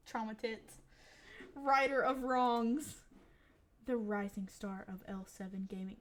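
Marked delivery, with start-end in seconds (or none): 1.6-6.0 grand proclamation. Acted. Heroine naming herself to the mom, grandiose. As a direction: announce it like a superhero.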